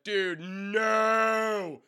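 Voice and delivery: high, loud drawn-out "no"; alarmed shout. Retold or imitated. Shouting at the singer hanging from the scaffold, alarmed. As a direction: yell up at him to stop. Yelling at singer climbing rafters.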